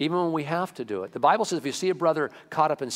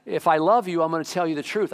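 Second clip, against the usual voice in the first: emphatic preaching; 4 semitones higher, 5 dB louder than usual. Real, not acted.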